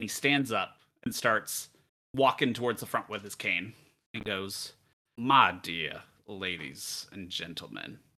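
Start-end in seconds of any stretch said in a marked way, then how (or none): 5.2-8.0 put-on slow, deep Southern gentleman drawl. A man with a cane walks to the front of a silenced room, Southern accent. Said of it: "he's Southern now".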